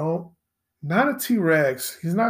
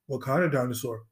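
quiet curious question; 6 semitones lower, 7 dB quieter, faster than usual. Retold or imitated. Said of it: "I was like".

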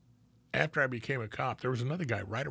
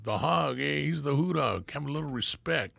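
higher-pitched, mildly indignant telling-off; Ruben's retold scolding; 4 semitones higher, 3 dB louder than usual. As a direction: imitate a buddy insisting on respect. Ruben keeps scolding his partner.

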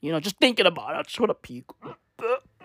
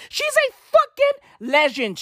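higher, slow emphatic cry; gushing about the anchor, bigger; emphatic praise; 13 semitones higher than usual. Real, not acted. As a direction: stretch out the praise. Repeated louder and slower.

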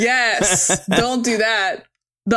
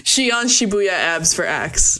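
laughing; 2 semitones lower, much slower than usual. Real, not acted. Repeating the joke, laughing.

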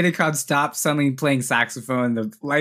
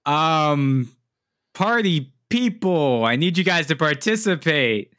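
intercom voice; slower than usual. Acted. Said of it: "you hear the intercom voice go".

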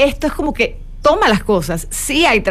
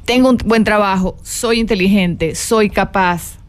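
calm affirmation; slower than usual. Shown as a demonstration. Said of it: "repítelo en voz alta".

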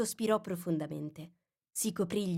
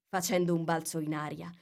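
ordinary delivery, nothing marked

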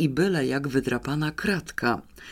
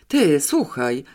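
louder, eager call to listen; excited call; 5 dB louder, slower than usual. Acted. Janeczka calling her brother about the cipher note, excited louder call. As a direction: grab his attention, all worked up. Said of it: "zawołała z przejęciem".

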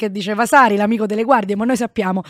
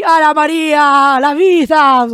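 slow, high, louder swooning line; dreamy sigh; 5 semitones higher, 8 dB louder, much slower than usual. Acted. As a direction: swoon over the good life. Mock dreamy exclamation.

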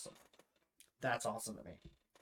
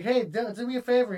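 loud, high taunting call-out; 11 semitones higher, 11 dB louder than usual. Retold or imitated. Taunting an enemy player over proximity chat, loud call. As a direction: bait him playfully.

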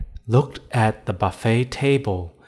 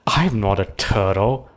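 trickster tale voices. Acted. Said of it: "the tortoise said".

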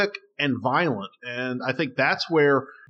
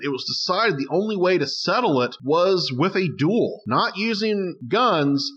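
measured, dramatic historical storytelling; story narration. Acted. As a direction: tell it like a documentary tale, with deliberate emphasis. Tells the duel story.

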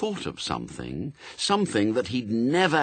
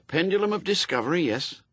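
put-on quick, eager, higher young recruit; nervous young Newt; 8 semitones higher, faster than usual. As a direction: rattle it back like a jittery lad. Newt answers.

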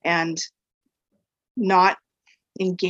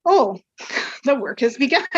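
laughing; 6 semitones higher, 4 dB louder than usual. Retold or imitated. Client suddenly sobbing, speaker laughs.

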